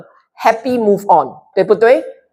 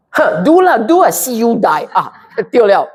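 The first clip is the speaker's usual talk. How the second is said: mock gloating; 3 semitones higher than usual. Imitating a cruel inner voice.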